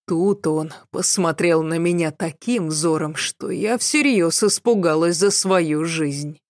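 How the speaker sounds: ordinary delivery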